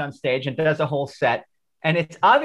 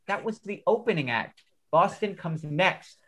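calm explanation; 7 dB quieter than usual. Retold or imitated. Usher calmly answers frantic kid.

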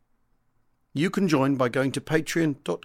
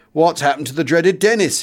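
a hint of a cheery fellow pilot, louder and higher; hearty greeting; 3 semitones higher, 9 dB louder than usual. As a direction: call out the teasing question heartily. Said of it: "he proclaims heartily".

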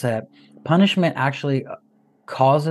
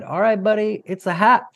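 singsong teasing warning, higher; playful warning; 8 semitones higher than usual. Retold or imitated. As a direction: tease the kid with a sing-song heads-up. Dad's playful warning to son.

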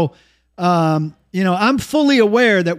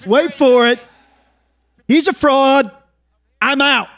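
mock shock; 5 semitones higher than usual. Mock announcement calling Kelly fraud.

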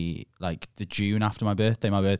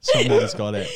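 mock squeaky voice, far higher and a bit louder; squeaky echo; 5 dB louder than usual. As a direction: repeat it in a silly cartoon squeak. Squeaky repeat for a joke.

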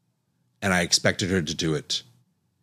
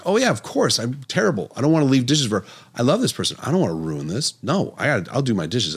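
eager younger self; 5 semitones higher than usual. Retold or imitated.

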